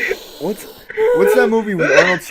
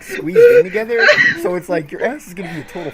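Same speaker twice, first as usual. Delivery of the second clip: laughing. Real, not acted. Laughing while describing.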